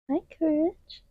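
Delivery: high, sweet greeting to the dog; pet voice. Real, not acted. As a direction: coo at the dog.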